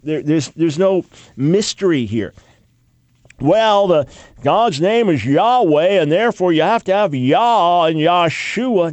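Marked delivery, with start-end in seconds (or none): 3.4-8.9 louder, a bit raised mock objector; a touch of a smug know-it-all; mock claimant. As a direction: parody the sacred-name believer. Mocking the sacred-name claim.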